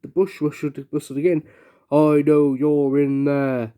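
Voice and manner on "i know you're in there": slow, lightly rumbling dragon voice; a slow, mild dragon rumble. Acted. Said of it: "rumbled a very deep voice".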